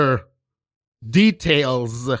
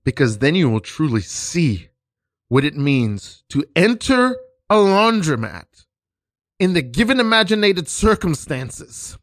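grand pompous teacher; 4 semitones higher than usual. Pretend. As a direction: intone it like a guru. Teacher intones scene grandly.

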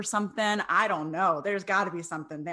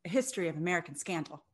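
newscaster voice; 2 semitones lower than usual. Real, not acted. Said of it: "you just changed your voice into your professional newscaster voice".

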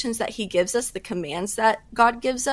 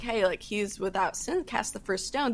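softer, gentle retelling of Jesus; mild tender mercy in the voice; loving; 6 dB quieter than usual. Retold or imitated. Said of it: "Jesus so lovingly was like".

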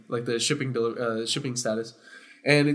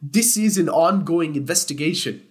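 mock passive-aggressive; 2 semitones higher than usual. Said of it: "he was getting passive-aggressive with me too".

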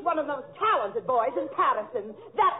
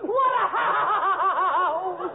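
put-on crying; 4 semitones higher than usual. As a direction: break into fake bawling. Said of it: "Please don't cry anymore".

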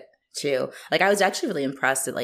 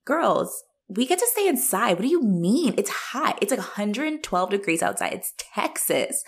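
high mocking lecture; 6 semitones higher than usual. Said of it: "And I'm thinking".

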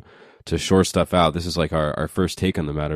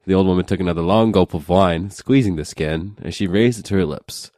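normal talking voice

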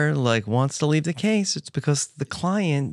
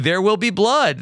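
movie quote; 6 semitones higher than usual. Retold or imitated. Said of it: "That's the famous quote".

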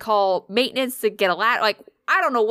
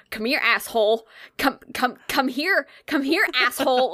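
higher-pitched exasperated calling to a cat; urgent coaxing; 4 semitones higher than usual. Retold or imitated. Owner calling a stranded cat off the roof, urgent coaxing. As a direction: urgently coax the cat over, acted out.

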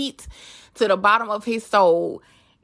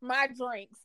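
slow, laughing through the words; laughing quote; 3 semitones higher, slower than usual. Retold or imitated. Host retelling rapper's drink order, laughing. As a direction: laugh it out while quoting. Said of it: "used to tell me".

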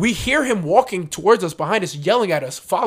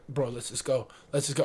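hushed urging; 4 semitones lower, 10 dB quieter than usual. Retold or imitated. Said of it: "And Jordan's like".

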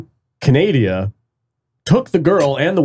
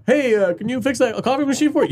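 mock sweet request; 11 semitones higher, faster than usual. Sheriff asks Rose, acted scene.

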